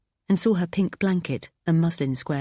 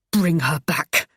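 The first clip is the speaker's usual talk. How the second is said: through gritted teeth, louder; 4 dB louder, slower than usual. Acted. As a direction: force it through clenched teeth. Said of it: "I said between gritted teeth".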